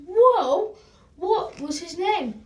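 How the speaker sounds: squealing high and loud whoa; amazed whoa. Acted. Newsagent amazed the hamster could break dance, squealed high and loud. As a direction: gasp it out, thrilled and astonished.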